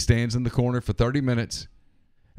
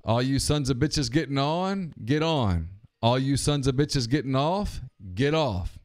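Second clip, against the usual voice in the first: conductor call; 3 semitones higher, slower than usual. Retold or imitated. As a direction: call out stops like a train conductor. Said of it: "He says".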